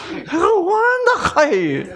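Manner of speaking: high laughing Gyeongsang Jesus; Gyeongsang dialect, laughing. Retold or imitated. Preacher plays Gyeongsang Jesus, laughing in high voice. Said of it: "예수님이 경상도 사람이었으면".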